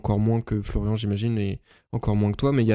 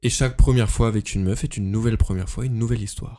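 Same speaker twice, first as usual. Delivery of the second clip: smooth, sensual narrator read. Acted. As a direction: murmur it like a velvety documentary narrator. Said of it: "La voix sensuelle". (voix sensuelle de narrateur)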